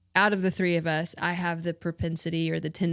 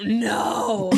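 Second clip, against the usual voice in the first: mock flat refusal; 3 semitones higher, 5 dB louder than usual. Retold surprising refusal of invite.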